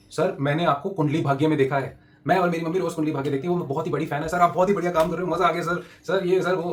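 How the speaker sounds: excited fan praising the actor on the phone. Retold or imitated. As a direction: imitate the gushing pest control fan. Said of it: "तो उनका phone आया कि".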